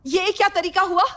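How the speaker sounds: loud, high-pitched reprimand; angry scolding. Acted. Mother objecting to daughter's way of talking, angry scolding.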